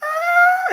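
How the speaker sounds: very high-pitched scream; piercing high "ah"; old lady's scream. Retold or imitated. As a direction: shriek like a terrified old lady. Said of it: "hearing this old white lady fucking screaming".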